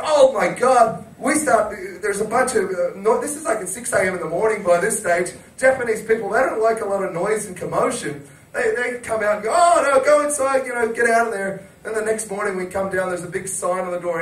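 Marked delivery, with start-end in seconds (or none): 0.0-1.1 slow, louder aghast gasp of words; retold horror. Friend hearing the head hit, retold horror. 9.5-11.7 louder, higher mock telling-off; imitated scolding. Locals annoyed by early-morning noise, mock scolding.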